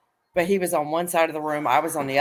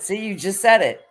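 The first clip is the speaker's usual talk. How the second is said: gotcha; 5 semitones higher, 3 dB louder than usual. Retold or imitated. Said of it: "my cousin said".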